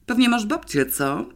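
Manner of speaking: wyżej, z lekką kpiną; nieco jadowicie. A narrator's reading. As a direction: wbij małą szpilę. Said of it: "nieco jadowicie". (zazdrosna sekretarka drwi z fotoreportera, jadowicie)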